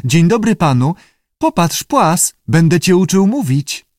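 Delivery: high-pitched lizard chatter; high creature mimicry; lizard parroting. A narrator's reading. Lizard parrots the keeper's phrases.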